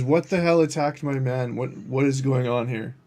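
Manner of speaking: loud, alarmed demand; alarmed shout. Acted. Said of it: "He just says".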